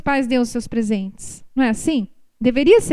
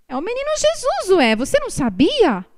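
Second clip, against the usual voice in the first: put-on high, matter-of-fact child voice; lightly voiced small boy; little boy; 5 semitones higher than usual. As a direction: say it like a know-it-all four-year-old. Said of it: "ele fez assim com a mãozinha".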